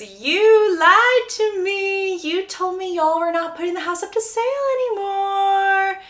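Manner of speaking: high, slow accusing voice; outraged real estate agent; indignant agent. Acted. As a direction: call him out as a liar. Angry agent confronts Conrad.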